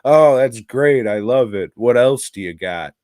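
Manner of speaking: hammed-up enthusiasm for a pitch; mock excited producer. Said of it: "he just kinda spat shit out on the fly".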